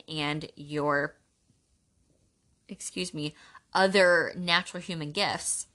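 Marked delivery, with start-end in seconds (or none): 2.7-3.3 whispered aside. Real, not acted. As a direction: whisper it under your breath. Quick aside mid-sentence.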